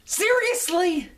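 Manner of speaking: high, loud, slow incredulous "Seriously?"; exasperated disbelief. Real, not acted. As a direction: drag out the disbelief. Disbelief over the election.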